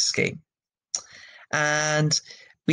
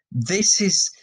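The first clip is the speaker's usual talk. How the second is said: whispered aside; 6 semitones higher than usual. Real, not acted.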